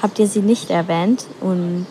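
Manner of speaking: normal talking voice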